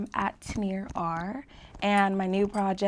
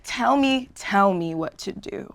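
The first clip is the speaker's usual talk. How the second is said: slow, controlled command; firm but unhurried demonstration; calm bark; 3 semitones lower, slower than usual. Shown as a demonstration. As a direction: give the order in a nice calm tone. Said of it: "nice, calm tone".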